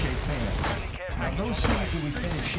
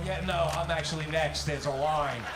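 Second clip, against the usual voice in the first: pretend other person; 4 semitones lower, 3 dB quieter than usual. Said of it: "I pretend I'm somebody else".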